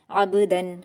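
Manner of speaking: "अब्दन" with a bounced b and short clear final n; clear unheld tanween. Shown as a demonstration. Teacher demonstrating izhar, un-nasalised end of "अब्दन". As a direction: finish "अब्दन" on a clear n without humming. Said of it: "बिना गुन्ना के जल्द पढ़ेंगे".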